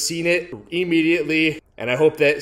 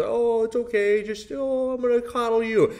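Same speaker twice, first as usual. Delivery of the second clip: put-on high-pitched, cooing baby-the-dog voice; mock coddling parent; 10 semitones higher than usual. Owner mocking parents who coddle their dog, high cooing voice. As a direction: simper it like an over-indulgent dog owner. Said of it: "one of those parents who had a freaking dog".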